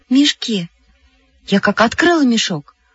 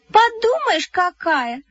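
high, sniffy put-down; scornful; 8 semitones higher, slower than usual. A narrator's reading. Sima Korostylyova pulls a face, scornful. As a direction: sneer at the show-off. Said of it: "скорчила физиономию Сима".

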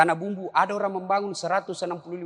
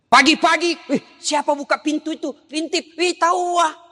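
higher, louder amazed exclamations; excited surprise; 7 semitones higher, 4 dB louder than usual. Acted. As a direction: gasp in delight at the child. Parent surprised at child leaving early. (kagum bersemangat)

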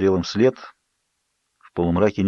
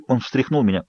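usual speaking voice

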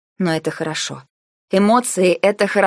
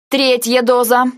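triumphant exclamation; 7 semitones higher, 5 dB louder, slower than usual. A narrator's reading. Heroine drenching him, exclaiming.

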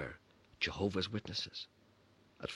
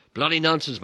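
dad scoffing; 9 semitones higher, 12 dB louder than usual. Retold or imitated. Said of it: "my dad said".

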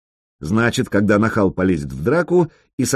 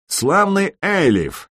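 raised and slow, proclaiming; booming address to the king; 9 semitones higher, slower than usual. A narrator's reading. Sanyok hailing the king across the hall, slow booming call. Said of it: "громогласно произнёс Санёк".

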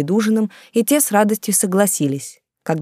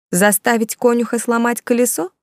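хмыкнув; 6 semitones higher than usual. A narrator's reading. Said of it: "хмыкнула Эмма".

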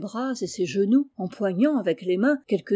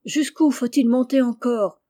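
distant shout; 2 semitones higher, 5 dB louder than usual. Acted. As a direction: shout it from far above, louder. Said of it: "sa voix lointaine... Il criait".

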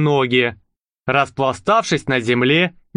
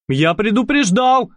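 warning; 7 semitones higher than usual. Acted. Youth warns tramp.

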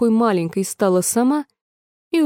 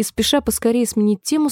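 usual speaking voice

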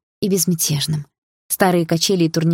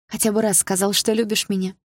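holding back tears; 3 semitones higher than usual. Acted. Daughter on the phone to her jailed father, near tears. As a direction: voice tight with held-back tears, pitched up. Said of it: "с трудом сдерживала слёзы".

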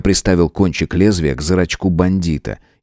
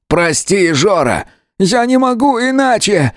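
much higher, plaintive yet resolute; plaintive but firm; 13 semitones higher, slower than usual. A narrator's reading. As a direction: apologize but hold firm. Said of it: "Жалобно, но при этом твёрдо". (жалобно, но твёрдо)

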